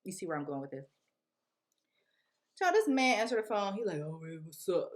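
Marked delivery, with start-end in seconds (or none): 4.0-4.9 fake rapper voice. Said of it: "Trying to sound like a rapper".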